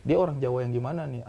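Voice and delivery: ordinary delivery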